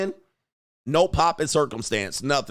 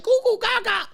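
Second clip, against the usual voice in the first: put-on baby talk. Dad imitating his baby's happy babble at him, a high squeal. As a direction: shriek it like a delighted baby. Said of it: "The baby sees you and be like".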